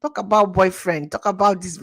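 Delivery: loud mock parental rebuke of "How dare you"; strict parent scolding a child, loud; scolding Nigerian parent. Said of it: "they talk like this for this Nigeria now".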